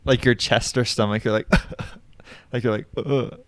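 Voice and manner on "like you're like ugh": mock choked "ugh"; imitated near-cry catch. Shown as a demonstration. Showing co-host the chest catch before crying, imitated choke. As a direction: act out the catch before tears. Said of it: "when you're gonna cry".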